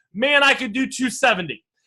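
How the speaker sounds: ordinary delivery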